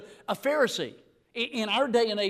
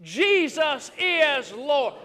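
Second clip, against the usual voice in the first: leading the response; 5 dB louder, much slower than usual. Shown as a demonstration. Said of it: "Would you say that with me?".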